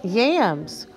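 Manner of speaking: very slow word-by-word reading; read-along. Shown as a demonstration. Teacher leading children reading together, slow word-by-word read-along. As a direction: read it one drawn-out word at a time for beginners. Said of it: "Ready and read".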